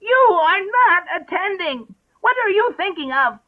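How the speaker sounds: slow, high, loud mouse scolding; high-pitched severe reprimand. A narrator's reading. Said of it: "said to Alice severely".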